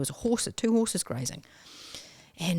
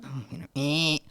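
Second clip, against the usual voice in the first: whispered aside; 2 semitones lower than usual. Retold or imitated. Retold awkward reply to landlord.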